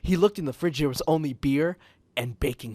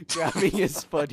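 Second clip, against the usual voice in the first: ordinary delivery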